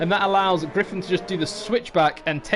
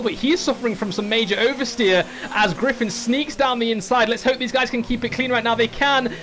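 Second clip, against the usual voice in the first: motorsport commentator; 2 semitones higher than usual. Acted. Live race play-by-play.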